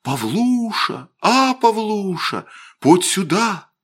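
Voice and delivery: put-on high, drawn-out ghostly child's call; Вася's little voice from underwater. Drowned boy summons his friend to the river, eerie drawn-out call. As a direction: call slowly as if from under the water. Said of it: "Васиным голоском, и словно из-под воды".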